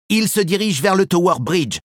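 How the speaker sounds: lightly winded, panting a little; out of breath. Acted. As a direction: say it winded from the chase. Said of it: "dit-elle essoufflée".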